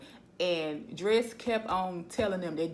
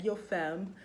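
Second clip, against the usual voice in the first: imitating London accent. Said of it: "because of their accent and stuff".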